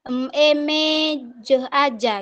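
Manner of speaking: slow syllable spelling, em, emejeh aja; drawn-out letter-by-letter emejeh aja. Shown as a demonstration.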